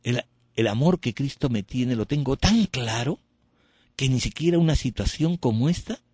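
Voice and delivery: serene answer to the priest; calm serene reply. Shown as a demonstration. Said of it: "el mismo timbre de voz".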